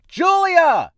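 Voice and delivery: high yell to another room; calling out loudly. Acted. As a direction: holler for her across the house.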